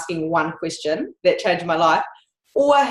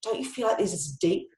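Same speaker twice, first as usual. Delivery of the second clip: softer, musing question asked in an undertone; hushed earnest wonder; 3 semitones lower, 7 dB quieter than usual. Retold or imitated. Young woman asking her friends a hushed, earnest question. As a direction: lean in and wonder aloud, hushed.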